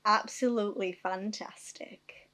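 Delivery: put-on slow Salford-style northern accent. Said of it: "I love when you do a northern accent".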